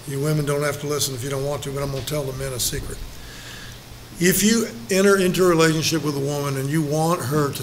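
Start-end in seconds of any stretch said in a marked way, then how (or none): 0.1-3.0 softer, fast confiding to the men; confiding aside. Acted. Preacher letting the men in on a secret, softer and fast. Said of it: "here's the secret I'm gonna tell you".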